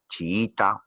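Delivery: "chiita" as chi-í-ta, double i; separated vowels. Shown as a demonstration. Teacher giving "chiita" as an example of hiatus, separated vowels. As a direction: lengthen the stressed i in "chiita". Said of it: "las vocales cerradas iguales se separan".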